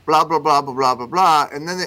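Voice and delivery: normal talking voice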